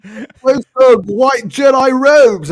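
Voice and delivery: high, slow mocking whine of a fan; whiny viewer. Teasing Spreezy, mimicking a fan asking for robes in a high whine. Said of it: "then you'll be like".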